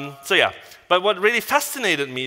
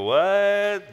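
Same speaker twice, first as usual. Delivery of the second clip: imitating a baffled listener, pitched up; drawn-out, higher mock "what"; mock puzzled reaction; 5 semitones higher than usual. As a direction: play the confused local. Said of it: "and the Swiss people go".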